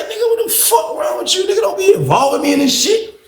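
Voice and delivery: high, exasperated shout; don't drag me into this; annoyed attitude. Retold or imitated. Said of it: "that's how my whole attitude was".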